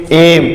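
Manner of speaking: एम with a slightly long "ए"; long vowel. Shown as a demonstration. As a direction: hold the opening "ए" of एम. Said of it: "sound क्या थोड़ा long है". (एम का "ए" थोड़ा लंबा)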